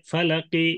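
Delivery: "ফালাকি" with a light final i; rum stop. Shown as a demonstration. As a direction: keep the short i ending "ফালাকি". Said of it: "এই রুম করে ওয়াকফ". ("ফালাকি"-তে রুম, হালকা জের)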